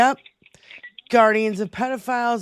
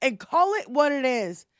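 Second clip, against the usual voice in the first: real outrage, pitch pushed up; high, vehement political tirade; worked-up rant; 4 semitones higher than usual. Real, not acted. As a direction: rant as if about to bust a blood vessel. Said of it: "He's gonna bust a blood vessel".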